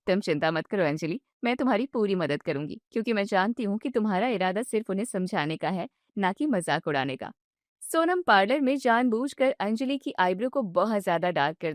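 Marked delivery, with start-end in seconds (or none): 0.1-7.3 lower, calm helper voice; lower-voiced beautician promising help; reassuring parlour woman. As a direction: reassure Anjali she'll help.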